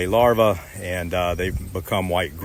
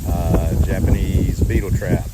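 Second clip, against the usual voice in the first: called out louder over the wind; shouting over wind; 6 dB louder than usual. Real, not acted. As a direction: raise the voice above the breeze. Hopefully you can hear me over the wind blowing.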